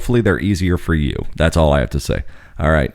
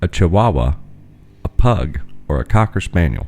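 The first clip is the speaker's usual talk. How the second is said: game show host. Acted. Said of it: "Do it again".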